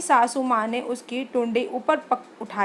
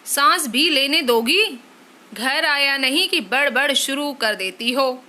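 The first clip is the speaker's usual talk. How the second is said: a touch louder, irritated retort; irritated husband; 4 dB louder than usual. Acted. Husband irritated at wife's questions, snapping. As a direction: brush her off, annoyed.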